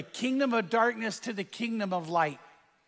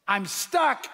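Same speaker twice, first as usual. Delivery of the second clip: yelled; 3 semitones higher than usual. Retold or imitated. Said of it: "And he yells".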